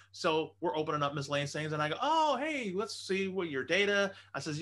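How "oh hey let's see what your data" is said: high, loud mock-casual discovery; feigned innocence. Covering for the friend before his wife, feigned innocence. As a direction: put on breezy surprise, pitched well up.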